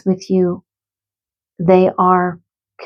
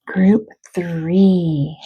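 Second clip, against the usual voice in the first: tearful. Real, not acted. Medium reading pet messages, choked up with emotion. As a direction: voice catching with tears on group three.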